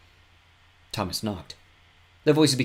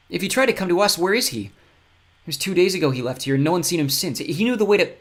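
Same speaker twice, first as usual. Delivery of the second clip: concerned; 9 semitones higher, 7 dB louder than usual. Acted. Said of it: "She was concerned".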